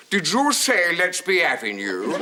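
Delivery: slow loud bemused query; puzzled passenger. Retold or imitated. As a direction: play a baffled man on the stairs. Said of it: "this man coming down the stairs said".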